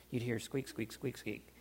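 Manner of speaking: soft squeak, squeak like a rusty pump; squeaky pump imitation. Imitating the squeaky water pump again.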